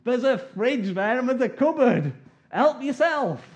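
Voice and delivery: loud, high call across the house. Real, not acted. Calling Dad about the fridge, loud and high. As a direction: call out to Dad in the next room.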